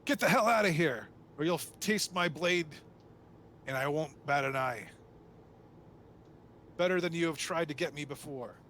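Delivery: high, loud opening burst that settles into a stern warning; yelled threat. Acted. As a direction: yell a threat, easing after the first burst. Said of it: "And he yells".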